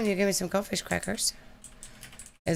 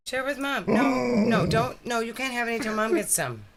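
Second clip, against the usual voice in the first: talking to a dog; 5 semitones higher than usual. Real, not acted. Scolding the dog over snacks.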